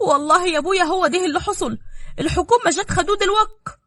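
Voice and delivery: breathless with bad news; anxious daughter. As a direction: daughter panicking on the phone.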